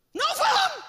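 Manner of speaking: high, loud, proud cry; triumphant shout. Real, not acted. Preacher proudly declaring his marriage survived, loud shout. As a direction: proclaim it in triumph.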